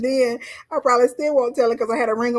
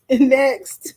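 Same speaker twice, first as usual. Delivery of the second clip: clipped snippy cashier; 3 semitones higher than usual. Pretend. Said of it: "I'll be like a cashier".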